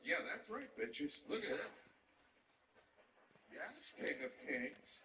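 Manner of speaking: with attitude. Retold or imitated. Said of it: "like, an attitude".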